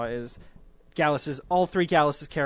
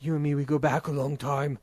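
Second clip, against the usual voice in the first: put-on German accent. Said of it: "That's my really bad German accent".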